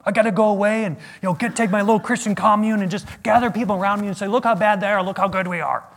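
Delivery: a hammed-up, fast pious complaint; hammed-up prissy, fast grumble; mock self-righteous whine. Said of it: "Now, I could have gone".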